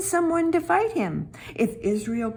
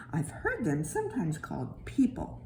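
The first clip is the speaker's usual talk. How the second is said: hushed secret aside to the listener; whisper; 5 semitones lower, 6 dB quieter than usual. A narrator's reading. Narrator confides to the children in a whisper. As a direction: let it slip in a whisper.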